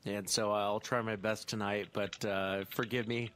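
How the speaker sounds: numb from the dentist; talking through a numb mouth. Real, not acted. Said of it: "the left side of my mouth is still numb".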